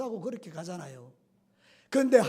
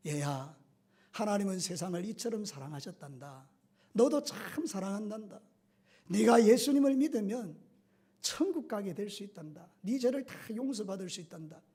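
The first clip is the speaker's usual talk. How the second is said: tender reassurance. Retold or imitated. Guard comforting the condemned prisoner.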